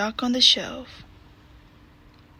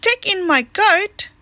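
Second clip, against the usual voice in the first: put-on old lady; 7 semitones higher than usual. Old lady voiced in a picture book.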